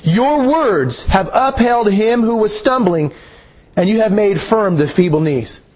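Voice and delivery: slow reread with a lifted start; scripture reread. Shown as a demonstration. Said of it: "Look at that one more time".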